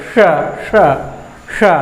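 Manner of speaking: श with the tongue curled back to the roof; repeated retroflex श. Shown as a demonstration. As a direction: say श from where ट is said, three times. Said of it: "उसी जगह से हम ये वाला श बोलेंगे".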